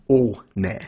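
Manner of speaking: ohne in two parts, "oh-neh"; German word demo. Shown as a demonstration. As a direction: say ohne slowly, syllable by syllable. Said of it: "without an umlaut".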